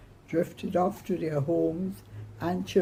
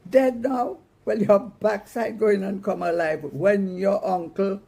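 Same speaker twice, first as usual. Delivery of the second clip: mock screamed threat; 4 semitones higher, 4 dB louder than usual. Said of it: "Mama screamed".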